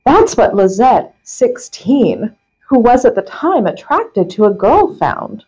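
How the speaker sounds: measured reading with punched key words; article read-aloud. Acted. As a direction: read a printed article out with deliberate emphasis. Reads article aloud to co-host.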